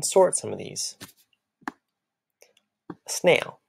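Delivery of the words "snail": whispered demo word. Shown as a demonstration. Teacher whispering a word for children to clap.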